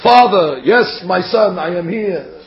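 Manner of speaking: lightly acted formal old-book dialogue; a touch of stagey formality, opening loud and settling; old English formality. Father and son in an old English play, lightly formal. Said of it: "that's how they used to talk".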